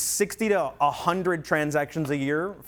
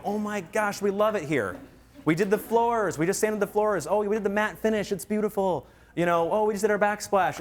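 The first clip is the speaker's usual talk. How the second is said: raised, bubbly client gushing over the house; gushing happy client; 5 semitones higher than usual. Retold or imitated. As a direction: gush like a thrilled homeowner catching up. Happy client gushing about home.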